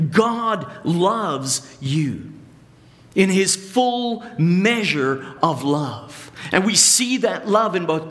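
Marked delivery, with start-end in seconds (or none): 0.1-6.3 slow, weighty and sincere; earnest assurance. Shown as a demonstration. Preacher correcting the brush-off for his congregation, slow and earnest. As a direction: let every word land, meaning it fully. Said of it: "No, no, no".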